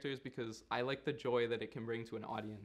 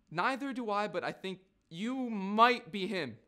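mimicking the kid; 8 semitones higher, 6 dB louder than usual. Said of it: "listen to this. Then he go".

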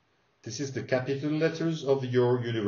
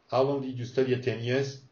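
quick asking; faster than usual. Shown as a demonstration. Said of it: "Don't just respond".

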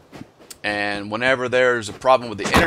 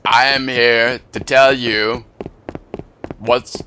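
Morgan Freeman impression; 2 semitones lower than usual. Gamer tries Morgan Freeman narrating, barely changed. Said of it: "How about Morgan Freeman?".

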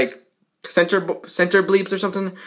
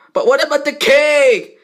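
whiny question; 11 semitones higher, 4 dB louder than usual. Acted. Character worried about cake.

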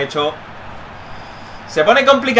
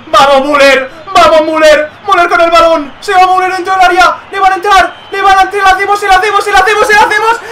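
higher and louder, building chant; rising excitement; 8 semitones higher, 4 dB louder than usual. Real, not acted. Gamer cheering his attack toward goal, rising yells. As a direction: urge the striker on, faster and faster.

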